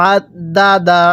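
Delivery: আদ দা দা opening on a squeezed throat sound; আদ দা দা in separate syllables, ain constricted; throat-pressed ain. Shown as a demonstration. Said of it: "গলার মধ্যে চাপ দিয়ে পড়তে হবে".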